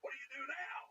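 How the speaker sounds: stunned out loud. Retold or imitated. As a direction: let the shock climb as you read it. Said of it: "said it out loud".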